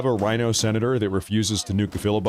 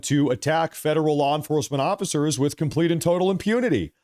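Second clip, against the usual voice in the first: mock indignation, higher pitched; sarcastic; 4 semitones higher than usual. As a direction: sneer it like fake outrage. Sarcastic mock outrage over arrests.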